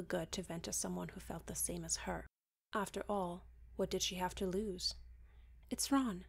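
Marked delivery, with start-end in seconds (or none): 5.7-6.2 blurted. Acted. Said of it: "she finally blurted out".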